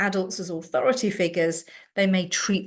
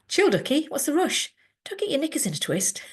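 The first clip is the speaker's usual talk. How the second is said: higher, mocking teen tease; cheeky teen; 8 semitones higher, faster than usual. Teen mocking an adult who rushes her, cheeky. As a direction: taunt the adult playfully.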